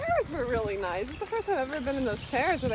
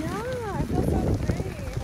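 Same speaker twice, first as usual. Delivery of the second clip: excited; 10 semitones higher, 4 dB louder, slower than usual. Real, not acted. Joyful on the bicycle.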